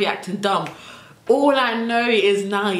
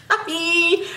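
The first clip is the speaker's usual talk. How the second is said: relieved; 10 semitones higher than usual. Retold or imitated. Relieved to escape upstairs.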